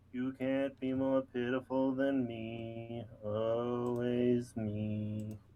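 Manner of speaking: low, soft, pitiful donkey voice, drawn out. Joking back after being introduced to the others: Eeyore voice. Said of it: "I was doing Eeyore".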